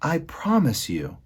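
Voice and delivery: high, slow princess voice; earnest princess. A narrator's reading. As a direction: promise slowly in a high voice. Princess makes a solemn promise.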